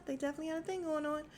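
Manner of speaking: fast, high, through laughter; high giggly repeat. Real, not acted. Vlogger repeating the gossip, high and giggling. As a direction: say it again giggling. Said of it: "And, yeah".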